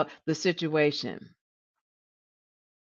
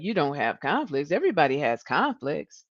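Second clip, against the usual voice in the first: side-eyed scepticism; 2 semitones lower than usual. Retold or imitated. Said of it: "I'm looking at you side-eyed like".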